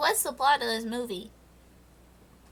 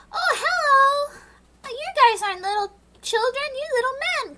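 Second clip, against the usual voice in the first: hammed-up sweet princess, much higher and louder; Snow White voice; 11 semitones higher, 4 dB louder than usual. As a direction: coo it like a Disney princess. Snow White greets the dwarves.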